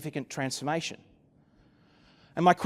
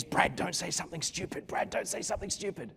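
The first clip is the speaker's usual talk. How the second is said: hushed, much softer self-warning; anxious inner voice; 11 dB quieter than usual. Acted. Speaker warning himself in his head mid-meeting, hushed. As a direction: drop to a quiet voice, as if thinking aloud. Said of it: "only thing going through my head".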